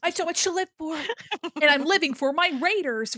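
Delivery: high, loud gushing welcome; hammed-up plea of joy; excited. Real, not acted. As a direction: pour out delight at the raiders.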